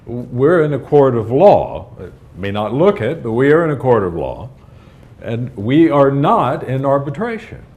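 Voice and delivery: firm and loud, laying down the law. Real, not acted. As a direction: lecture him sternly from the bench. Judge lecturing the defendant.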